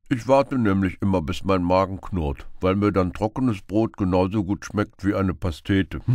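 loud, easygoing rogue; carefree beggar. Acted. Beggar explains to Robin how he eats, loud and carefree. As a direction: brag cheerfully about hunger.

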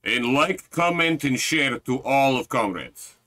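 light mock Russian accent. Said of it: "Why did we go Russian?".

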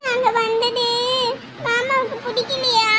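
slow, hurt, crying question; tearful. Acted. Child asking whether uncle dislikes their visit, tearful. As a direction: ask it haltingly through tears. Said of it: "நீங்க ஏன் சாமி அழுதுட்டு இருக்கீங்க".

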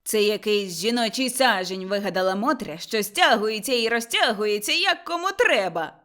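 mocking. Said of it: "сказав насмішкувато Лаврін".

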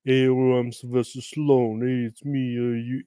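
a light mock impression of a drawling action star; Sylvester Stallone. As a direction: lightly imitate his slurred teasing voice. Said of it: "when I do a Sylvester Stallone voice".

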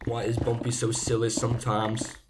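goofy slow made-up Bumpy accent. Shown as a demonstration. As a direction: put on a silly, drawn-out accent of no known place. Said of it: "I try to do a, an accent".

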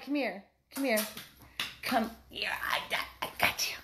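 soft unvoiced whisper to a puppy. Real, not acted. Cuddling the puppy and asking for kisses, whispered. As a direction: hush it tenderly into the pup's ear.

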